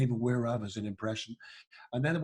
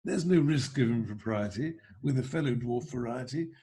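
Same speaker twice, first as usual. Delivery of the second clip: royal voice, half-sung patter; sing-speak it like Prince Charles; Prince Charles as Doctor Dolittle. Pretend. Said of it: "why don't I do Prince Charles".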